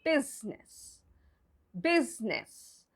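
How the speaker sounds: BUSINESS said as two syllables, BIZ-nis; correct pronunciation. Shown as a demonstration. Teacher modelling the word business for learners, correct pronunciation. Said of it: "So we pronounce it".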